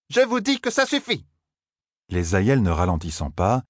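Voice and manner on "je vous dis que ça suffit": high, furious order; furious command. A narrator's reading. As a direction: make them stop in rage. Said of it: "serra les poings de rage". (ordre furieux, très aigu)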